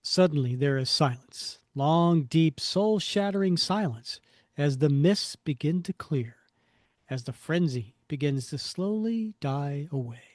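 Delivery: portentous comic-caption reading; theatrical narrator setting a hushed scene; dramatic narration. A narrator's reading. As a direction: punch the first words, then let it die away.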